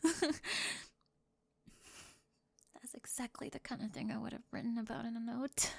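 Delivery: hushed, intimate cheerleader confessing to a classmate; soft roleplay confession. Acted. Soft-spoken roleplay confession scene.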